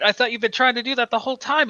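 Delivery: high, fast puzzled voice; confused Scarecrow. Retold or imitated. Fan voicing Scarecrow baffled by the Joker, high fast confusion. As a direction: blurt it out baffled. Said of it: "the Scarecrow's like".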